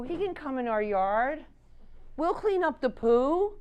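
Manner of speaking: high, drawn-out imitation of obliging neighbours; accommodating neighbours. Neighbours answering a wife's card about dementia, imitated as accommodating. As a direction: stretch it out high, as the helpful neighbours. Neighbours' kind replies, voiced in story.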